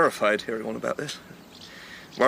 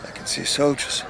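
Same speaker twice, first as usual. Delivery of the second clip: whispered warning; 3 semitones higher than usual. Acted. Spotting soldiers from the hill.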